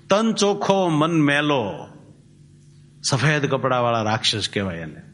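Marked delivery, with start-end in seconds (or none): 0.1-1.9 તન ચોખ્ખો pitched high, then મન મેલો slow and falling; emphatic contrast. Shown as a demonstration. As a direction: stress મન, drawn out and falling. Preacher's rhetorical contrast.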